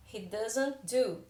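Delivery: "He doesn't do" said slowly, word by word, falling at the end; teacher slowing down so each word of "He doesn't do" is clear; slow, spelled out. Shown as a demonstration. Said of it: "Então, aí eu tenho does com not".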